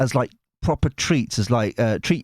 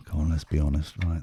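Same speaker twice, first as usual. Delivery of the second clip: ordinary talk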